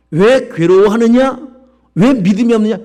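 preaching a pointed challenge; emphatic challenge. Acted. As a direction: press the question on the congregation.

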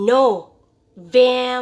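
"November" broken into syllables, V buzzed on the lip; correct V pronunciation. Shown as a demonstration. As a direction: drill "November" as no... VEM... ber, firmly. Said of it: "ให้นักเรียนออกว่า".

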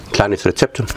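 talking through a mouthful; chewing while speaking; mouth full. Real, not acted. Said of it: "mit vollem Mund redet man nicht". (mit vollem Mund gesprochen)

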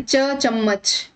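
teacher sounding out च as in चम्मच; pronunciation demo. Shown as a demonstration. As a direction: say च alone, then चम्मच. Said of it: "इसका उच्चारण".

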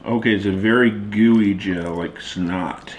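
chewing gummy candy; talking while eating. Real, not acted. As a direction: mouth partly full. Seen 4: Speaker unclear; both girls hold gummies at lips throughout, man not eating.

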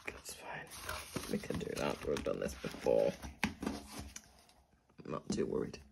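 near-whisper, very soft and low; hushed self-reassurance. Real, not acted. Budgeter reassuring herself about the last week, hushed. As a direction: murmur it to yourself, barely voiced.

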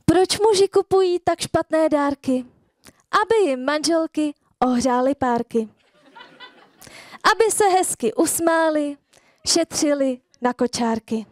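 rhymed slam verse recital; performed poem with pauses between lines. Acted. Recites her rhyming poem.

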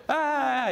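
high put-on childish "아" groan; daughter's whiny groan. Dad imitating sleepy daughter, high whiny groan. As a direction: whine like a sleepy kid refusing to get up. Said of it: "이래".

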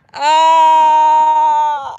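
startled yell at bird poop; disgusted shriek. Real, not acted. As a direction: cry out as the poop lands. Bird poops on her.

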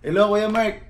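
butter him up like a polite younger cousin; sweet mock politeness. Retelling the caller's sudden sweet greeting, sugary.

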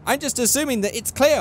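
high-pitched mock Asian-accented cartoon voice; high put-on Asian accent; Family Guy's Asian woman. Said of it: "it's like the Asian woman is like".

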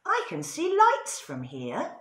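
high rooster calling down; excited rooster. A narrator's reading. Rooster in the tree calls to the others, high excited voice. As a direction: call out high from the treetop. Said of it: "climbed up into a tree and said".

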